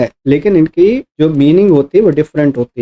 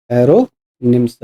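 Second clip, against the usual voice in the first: slow, careful repetition; 4 semitones lower, much slower than usual. Shown as a demonstration. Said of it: "repeats the term slowly".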